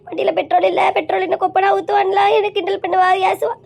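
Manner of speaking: acted weeping complaint; tearful lament. Wife reproaching her absent husband for meeting another woman, tearful lament. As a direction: wail out each grievance against him. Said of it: "இவ்வளவு ஒருத்தி அழுவ".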